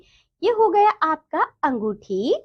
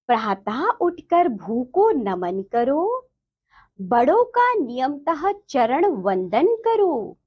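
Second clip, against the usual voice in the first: sing-song reading, line by line; children's verse recitation. Shown as a demonstration. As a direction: recite the verse deliberately for pupils to follow.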